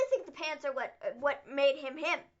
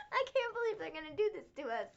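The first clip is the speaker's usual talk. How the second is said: laughing disbelief; 2 semitones higher, 6 dB quieter than usual. Real, not acted. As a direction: laugh then complain in disbelief.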